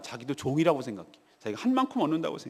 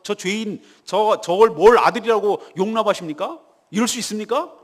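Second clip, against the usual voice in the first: rising indignant complaint, louder toward the end; son protesting to his father; 5 dB louder than usual. Acted. Preacher voicing the eldest son arguing with his father, indignant. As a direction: push the grievance harder with each line. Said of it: "막 이렇게 아버지한테 따지는 것이".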